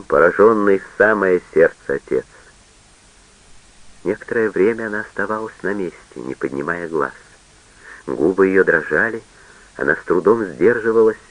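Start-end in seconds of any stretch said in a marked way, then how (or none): none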